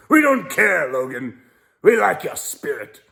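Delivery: high-pitched mock sponsor voice; Mister U P R. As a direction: play the sponsor big and high. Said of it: "that's Mister U P R's voice".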